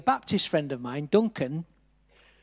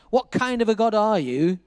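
restrained mock shout, pitched up; retold shouting; 3 semitones higher, 4 dB louder than usual. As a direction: echo an angry challenge without fully shouting. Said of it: "I'd been shouting out to God".

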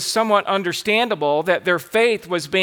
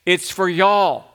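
lightly Southern-flavored delivery; a touch of Southern US accent on "y'all". Shown as a demonstration. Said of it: "That's how we do it in the South".

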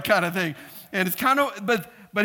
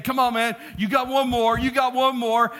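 higher-pitched urging; encouraging spotter; 4 semitones higher than usual. Retold or imitated. Spotter urging his tired partner through a rep, encouraging push. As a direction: egg on a flagging lifter. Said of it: "He'd be trying to encourage me".

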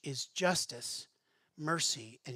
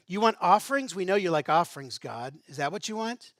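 mocking, contemptuous challenge to God; contempt; 5 dB louder than usual. People throwing offerings back at God with contempt. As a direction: sneer the offer at him. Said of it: "can you hear the contempt in their voice".

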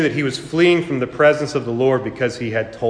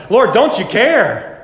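higher, slower, louder mock-pleading whine; whiny disciple; 6 semitones higher, 4 dB louder, slower than usual. Preacher mimics fickle disciples whining to the Lord, mock plea. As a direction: plead like a fickle, frightened follower.

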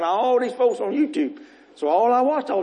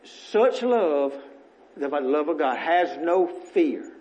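recited scripture; much slower than usual. Shown as a demonstration. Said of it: "I say this scripture every day".

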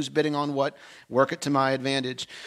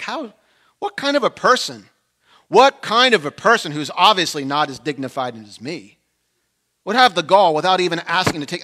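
indignant rant; 3 semitones higher, 7 dB louder than usual. Retold or imitated. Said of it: "'Cause I'm like".

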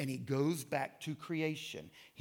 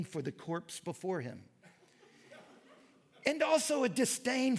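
high, loud, scornful reading, laughing through it; mocking read-aloud; 6 semitones higher, 4 dB louder than usual. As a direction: ham up the disdain for English butchery. Mocking quote about English butchers.

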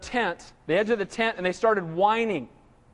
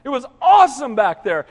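mock weepy nostalgia. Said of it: "They started crying".

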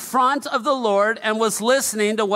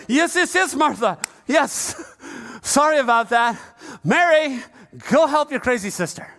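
mock eager Jesus; 3 semitones higher than usual. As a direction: play him as a pushover caving at once. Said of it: "And Jesus is like".

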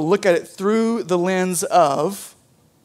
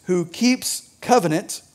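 "covenant" slowed and leaned on; slow down and weigh "covenant"; stress on covenant; slower than usual. Shown as a demonstration. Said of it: "I want to emphasize the word covenant".

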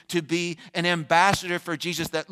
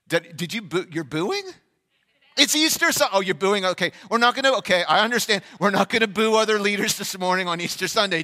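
surprised and amused; 3 semitones higher, 4 dB louder than usual. Real, not acted. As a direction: catch yourself mid-sentence, then calm the crowd. Answering booing congregation.

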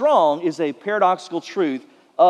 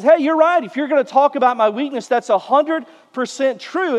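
high, emphatic retold admission; lively imitation of someone readily agreeing; emphatic conceding; 5 semitones higher than usual. Preacher voices Paul answering his critics, emphatic and conceding.

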